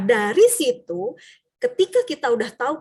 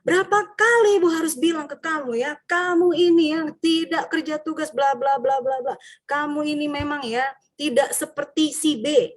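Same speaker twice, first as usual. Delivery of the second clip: higher, reproachful scolding; guilt-tripping teacher; 4 semitones higher than usual. Retold or imitated. Teacher comparing a pupil to another, reproachful scolding. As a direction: make the pupil feel ashamed. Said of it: "Pembuat orang merasa bersalah".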